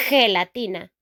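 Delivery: "gelatina" with a harsh throaty h for G; Spanish G sound. Shown as a demonstration. Teacher demonstrating Spanish G to learners, throaty h in "gelatina". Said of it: "G sound".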